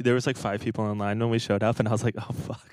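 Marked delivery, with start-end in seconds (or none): 2.2-2.7 breathy whispered curse; whispered oh fuck. Retold or imitated. Seeing only five fans in line, whispered dismay. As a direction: mutter it under your breath, dismayed.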